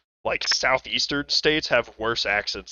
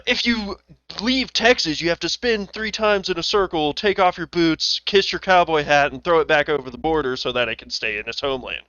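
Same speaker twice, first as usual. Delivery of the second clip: mock-solemn list, starting higher and louder; exaggerative TikTok lady; 4 semitones higher, 4 dB louder than usual. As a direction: build a silly ritual in her exaggerated voice. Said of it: "she's, like, being exaggerative".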